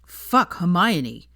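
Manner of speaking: loud exasperated cry; frustrated shout. Acted. Draco shouting at Hermione in frustration. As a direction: burst out at her.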